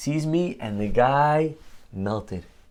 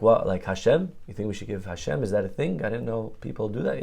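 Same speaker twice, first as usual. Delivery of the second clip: playing dumb; 5 dB quieter than usual. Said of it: "I played dumb".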